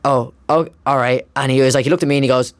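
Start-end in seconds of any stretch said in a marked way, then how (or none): 0.0-1.2 sheepish surprise. Retold or imitated. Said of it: "And she just went".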